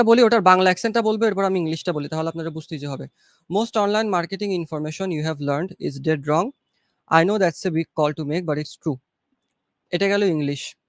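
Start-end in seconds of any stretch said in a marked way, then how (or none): 3.5-9.0 slow English read. Shown as a demonstration. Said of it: "বাংলাদেশের accent আমি আপনাকে দেখাচ্ছি".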